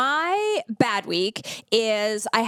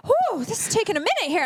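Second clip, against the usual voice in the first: feeling faint; 10 semitones higher, faster than usual. Retold or imitated. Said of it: "I start to feel a little faint".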